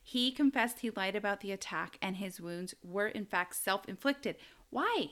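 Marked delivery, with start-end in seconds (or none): 4.7-5.1 high-pitched mock despair; much higher, baffled plea; exasperated disbelief. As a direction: wail the question high, in exaggerated disbelief. Mock despair at the hoaxers' lies.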